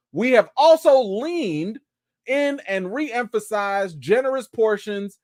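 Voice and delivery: mock corporate read, stretching the end; reading the statement. Shown as a demonstration. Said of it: "It says here".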